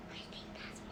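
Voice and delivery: very soft pretend secret whisper. Child whispering to sleeping chimera, hushed whisper. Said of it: "you're gonna whisper in my ear".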